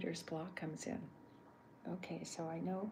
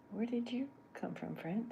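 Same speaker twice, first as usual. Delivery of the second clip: Chuck's voice; 5 semitones higher than usual. Pretend. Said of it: "this is Chuck".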